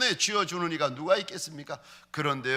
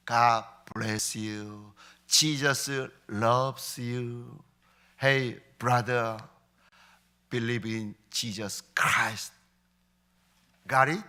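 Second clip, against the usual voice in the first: very slow, softer, deliberate words to a stranger; slow careful English; 6 semitones lower, 4 dB quieter, much slower than usual. Retold or imitated. Pastor blesses a homeless man in English, very slow and soft. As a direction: spell out each English word slowly and gently.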